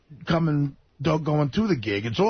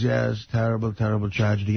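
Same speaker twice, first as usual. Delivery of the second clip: low, solemn German guide; German accent; 8 semitones lower than usual. Retold or imitated. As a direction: mourn dutifully in a German accent. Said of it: "he has that accent".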